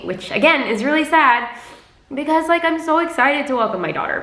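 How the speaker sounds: high, strained voice, getting choked up; emotional. Real, not acted. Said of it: "very emotional because".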